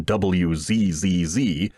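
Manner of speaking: usual speaking voice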